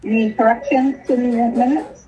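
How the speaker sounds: speaking through a face mask; muffled voice behind a mask. Real, not acted. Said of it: "you sound really muffled".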